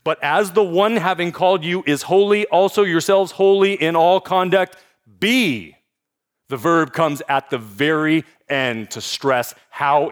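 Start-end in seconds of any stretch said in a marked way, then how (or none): 0.0-5.7 wooden literal reading. Shown as a demonstration. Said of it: "I said it was wooden".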